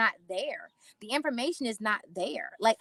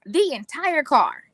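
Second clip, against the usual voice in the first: slow, much louder, projected; repeated loud and slow for people in the back; 4 semitones higher, 10 dB louder, slower than usual. Shown as a demonstration. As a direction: call it out to the back row. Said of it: "Let me say it again for people in the back".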